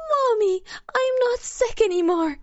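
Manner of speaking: put-on very high, loud, joyful quote of a little child; overjoyed, pitched right up; exultant delight. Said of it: "such exultation in Yelena's voice, such delight".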